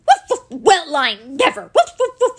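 loud, high barks of astonishment; yap, then exclaim loudly; astonished excitable dog; amazed talking dog. A narrator's reading. Toby is amazed at the prize.

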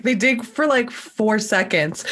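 Moira Rose imitation. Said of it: "you sounded like Moira Rose just then".

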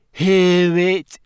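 high, loud ghostly question; ghost girl. A narrator's reading. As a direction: ask eagerly. Ghost asking Harry.

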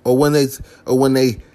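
usual speaking voice

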